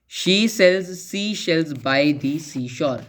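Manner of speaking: very slow, evenly spaced tongue-twister; deliberate, stretched-out recitation; slow example reading. Shown as a demonstration. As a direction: spell out each word slowly for a class. Repeats alliteration example for students.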